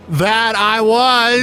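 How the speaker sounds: very slow, drawn-out Obama voice; Obama impression. Friend mimics Obama's slow pauses. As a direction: stretch it out like a halting president. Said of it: "your Obama impression".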